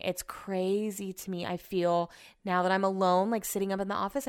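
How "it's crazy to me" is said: soft stunned whisper; whispered disbelief. Real, not acted. Vlogger alone in her office, whispering in disbelief. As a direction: whisper it to yourself, slowly.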